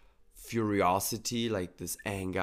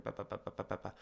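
mock mental chatter; 8 dB quieter, much faster than usual. Imitates the mind's chatter.

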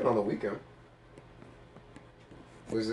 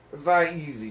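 snobby; 4 semitones higher than usual. Shown as a demonstration. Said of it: "Just be snobby".

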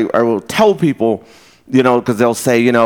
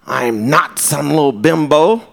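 imitating offended lady. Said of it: "tell this lady".

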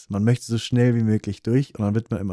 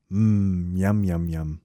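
yummy mmm sound; 3 semitones lower, much slower than usual. Shown as a demonstration. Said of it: "wie als ob man Miam, Miam, Miam macht".

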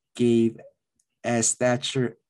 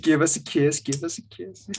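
lightly voiced, playful Thatcher imitation; a hint of Thatcher, asking for a kiss; mock Thatcher; 4 semitones higher than usual.

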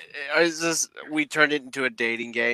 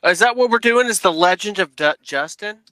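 surprised; 5 semitones higher, 4 dB louder than usual. Real, not acted. Surprised at the show's topic.

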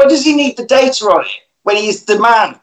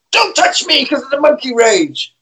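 monster voice; 7 semitones higher than usual. Retold or imitated. Carl quoted again.

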